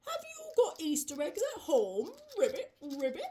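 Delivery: mostly low frog puppet voice, pleased; happy frog. Acted. Froggy delighted with his Easter egg, happy frog. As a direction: play a contented low-voiced frog, chatty with ribbits.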